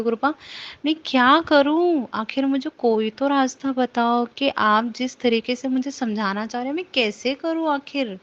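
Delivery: imploring the guru, pitch lifting on the questions; retold desperate appeal; helpless pleading. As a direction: plead for a way out, exasperated. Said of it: "मैं ऐसे बोल रही हूँ गुरुपा को".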